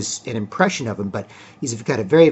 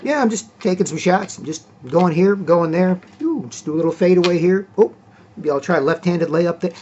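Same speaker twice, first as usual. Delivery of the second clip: higher, lightly voiced casual shootaround musing; breezy mock inner voice of a relaxed star; imitating a carefree Kawhi; 6 semitones higher than usual. Host mimicking Kawhi toying with the Pelicans, higher and casual. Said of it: "He was just".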